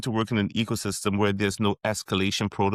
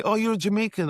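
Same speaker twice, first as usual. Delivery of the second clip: much higher, mock-confident voice; imitating a stranger; 12 semitones higher, faster than usual. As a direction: act out the confident mistake. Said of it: "they'll say".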